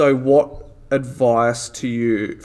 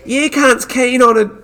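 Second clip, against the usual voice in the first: put-on broad Australian accent, pitched high and loud; Bogan voice; 11 semitones higher, 6 dB louder than usual. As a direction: ham up a broad ocker Australian. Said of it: "I have to do it in a fucking Bogan voice".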